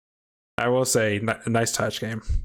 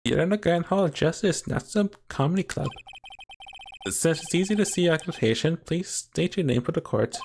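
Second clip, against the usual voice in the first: lightly voiced, higher courtroom official; a hint of a formal court officer, pitched up; 4 semitones higher than usual. Official addresses witness in court, lightly put-on formal voice.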